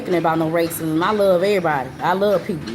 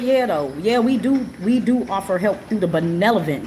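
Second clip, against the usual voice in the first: eager secretary. Retold or imitated. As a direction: mimic her first bright, eager answer. Secretary's first helpful answer.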